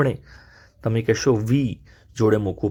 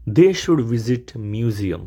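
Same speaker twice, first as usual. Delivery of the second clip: slow teaching read; much slower than usual. Shown as a demonstration. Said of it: "teacher models the sentence".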